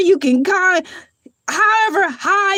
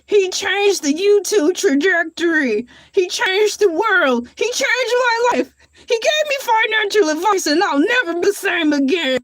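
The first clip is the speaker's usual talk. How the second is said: mild mock reverent reminiscence; imitating an old fan; 3 semitones higher than usual. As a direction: gush like a starstruck grandparent. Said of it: "you'll sit around the fire and say".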